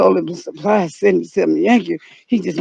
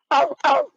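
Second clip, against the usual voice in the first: high yelp; 5 semitones higher than usual. Pretend. Noise made during search.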